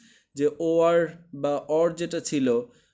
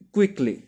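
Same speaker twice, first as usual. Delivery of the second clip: কুইকলি said higher and louder, the ending লি clearly added; example word stressed; 6 semitones higher, 5 dB louder than usual. Shown as a demonstration. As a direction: hit কুইকলি up high to show the new ending. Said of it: "L Y add করে দিচ্ছেন". (কুইকলি উঁচু গলায় জোর দিয়ে)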